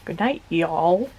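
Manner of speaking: slow, drawn-out Minnesota goodnight; Minnesotan accent. Pretend. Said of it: "In our very Minnesotan accents".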